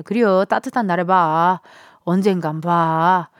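lightly imitated Chungcheong accent, slowed; easygoing Chungcheong accent, unhurried; Chungcheong drawl. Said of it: "약간 요런 충청도 느낌 아닐까요?".

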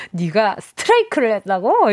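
mock doubting question; 못 믿겠다는 흉내. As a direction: read it as a sceptical listener. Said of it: "이런 느낌인데". (믿기 어렵다는 듯 되묻기)

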